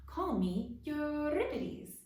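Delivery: slow, high, theatrical self-introduction; grand actor introduction. Acted. Frog actor introducing himself to the cats, slow and grand. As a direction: announce your stage name grandly. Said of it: "he nodded and grinned".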